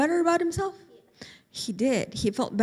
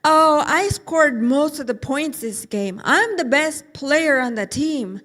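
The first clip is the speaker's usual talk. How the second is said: slow, louder boastful boast; bragging; 6 dB louder, slower than usual. Acted. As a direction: savor every word of praise. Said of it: "started saying things like".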